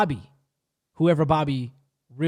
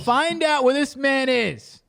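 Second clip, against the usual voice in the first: slow, higher, firm command; stern order; 8 semitones higher, 4 dB louder, slower than usual. Retold or imitated. A woman hiring a private investigator, slow and stern. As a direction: lay down the order, slowly and deliberately. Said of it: "She's like".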